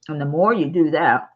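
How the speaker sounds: talking around a throat lozenge; words round a cough drop; mouth full. Real, not acted. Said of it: "Ricola in my mouth here".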